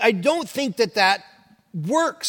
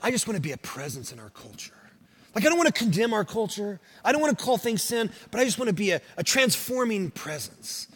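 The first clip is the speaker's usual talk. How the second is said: softly voiced imitation of people wanting to be a presence; imitating mild believers; 6 dB quieter than usual. Preacher imitating believers who avoid condemning culture, mild and soft. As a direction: gently mimic a timid churchgoer, a little softer. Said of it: "you hear people talk like this".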